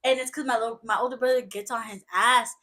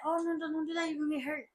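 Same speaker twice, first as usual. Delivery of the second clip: soft, slightly lifted voice of mild concern; gentle correction; 3 semitones higher, 10 dB quieter, faster than usual. Acted. Correcting someone else's kid without scolding, gently. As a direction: softly caution a small child.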